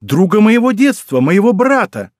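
exclaiming. A narrator's reading. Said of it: "воскликнула она".

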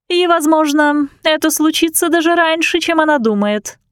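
plain reading voice

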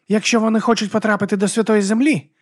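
high, rough voice of a wild werewolf woman; Vigga's voice. Acted. Vigga puzzles over the pilgrims, in a high brash voice.

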